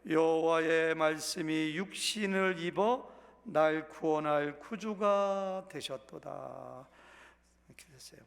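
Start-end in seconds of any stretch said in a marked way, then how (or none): 0.1-6.9 slow, measured recital of hymn words; 찬송가 가사를 천천히 낭독; reading hymn lyrics. Shown as a demonstration. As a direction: read the hymn lines deliberately, word by word. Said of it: "가사만 읽을게요".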